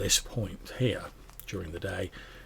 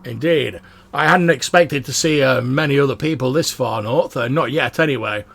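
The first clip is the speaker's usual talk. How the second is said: loud, high, booming dwarf voice; bellowing dwarf; 4 semitones higher, 9 dB louder than usual. Acted. Dwarf answers the watchman, bellowing. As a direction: bellow cheerfully so the whole camp wakes. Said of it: "dwarf's bellowing".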